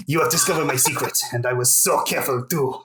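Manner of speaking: mock French accent. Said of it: "At least I can stop doing this accent".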